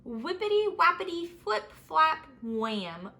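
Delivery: high, bouncy excited rhythm; lively playful chant; tumbling sound words. A narrator's reading. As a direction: rattle them off like a fall. Snake tumbles through branches.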